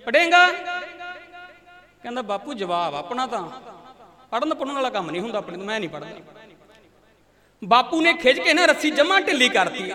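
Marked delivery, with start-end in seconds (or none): 0.1-0.5 sharp, higher demanding question; father's demand. Retold or imitated. Angry father demands an answer from his son, sharp and loud. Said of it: "ਫੇਰ ਪੁੱਛਦਾ ਤੀਜੀ ਵਾਰੀ". 2.2-6.2 calm stubborn refusal. Retold or imitated. Boy answers defiantly from below.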